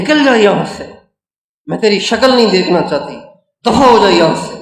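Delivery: mock shout at the son to get out; sermon-style imitation of an enraged mother; angry mother shouting. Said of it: "غصے میں بھری ہوئی ہے".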